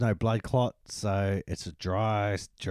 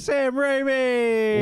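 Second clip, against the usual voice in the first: dramatic announcer voice; 13 semitones higher, 5 dB louder, much slower than usual. Acted.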